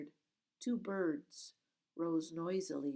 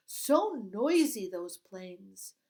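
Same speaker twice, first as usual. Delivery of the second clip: put-on eager girl; 9 dB louder, slower than usual. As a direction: chatter eagerly to distract. Girl mimicking noisy planes.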